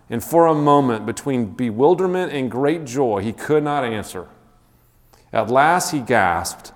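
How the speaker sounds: measured read-aloud narration to a class; story reading. A narrator's reading. Teacher reads Lord of the Rings to class, story-narration voice. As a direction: read the passage slowly, savoring it.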